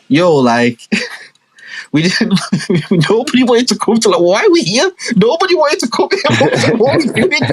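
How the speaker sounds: high, laughing protest; laughing sister. Retold or imitated. Sister laughing while protesting to mum. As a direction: giggle through the complaint. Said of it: "my sister was like".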